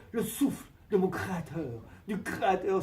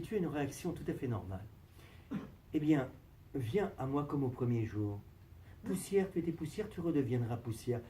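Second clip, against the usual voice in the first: solemn God voice; 3 semitones lower, 6 dB quieter than usual. Acted. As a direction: intone it like the Creator.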